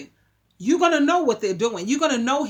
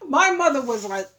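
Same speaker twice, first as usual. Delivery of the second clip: normal talking voice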